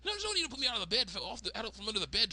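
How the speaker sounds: put-on high, quick girl voice; Candace. Girl gives herself up to captors, high hurried surrender. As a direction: babble it in a squeaky put-on voice. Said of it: "She's like".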